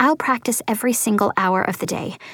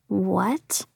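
a soft, shocked whisper; 6 dB quieter than usual. A narrator's reading. Newcomer hearing shocking news, whispering. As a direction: breathe the word out, stunned. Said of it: "I whisper".

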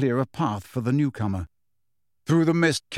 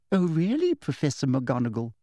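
deadly voice. A narrator's reading. Umbridge to McGonagall, deadly sweet. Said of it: "said Umbridge in a deadly voice".

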